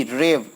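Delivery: "रेव" held a little long; stressed "रेव" for demonstration; strong, longer syllable. Shown as a demonstration. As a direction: lean on "रेव" and let it take time. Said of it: "इसको बोलते समय थोड़ा सा time लग रहा है".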